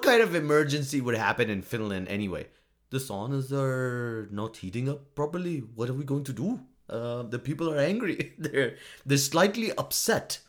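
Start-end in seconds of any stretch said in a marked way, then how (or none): 2.9-10.4 mock Finnish-accented official fretting mildly. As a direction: put on a stereotyped Finnish accent, lightly worried. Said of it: "that accent that I'm doing".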